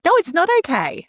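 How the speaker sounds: sharp correction of the shushing line; emphatic no. Real, not acted. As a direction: cut it off firmly. Rejecting the shushing.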